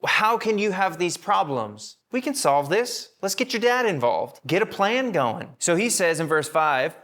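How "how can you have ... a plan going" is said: butter up the prince, pitch lifted; sweet-talking the sulking prince; flattering schemer. Retold or imitated. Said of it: "It's like saying".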